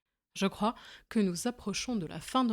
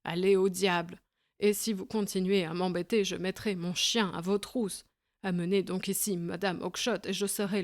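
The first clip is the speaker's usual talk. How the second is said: louder, threatening shout; angry yelling; 4 dB louder than usual. Acted. Breckenridge threatening the little man, angry shout. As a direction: drive him off with your voice. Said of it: "criait-il".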